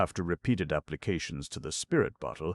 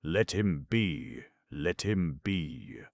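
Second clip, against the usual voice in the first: soothing; much slower than usual. Acted. Nancy soothing Sykes.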